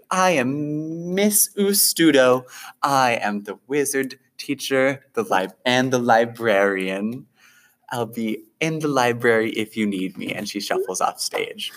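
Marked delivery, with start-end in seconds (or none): 0.1-10.3 spindly wizard teacher. Acted. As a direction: dither like a scatterbrained librarian. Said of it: "she holds up a wand".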